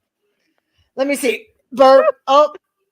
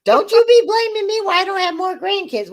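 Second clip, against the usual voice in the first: mock scolding mom; 8 semitones higher than usual.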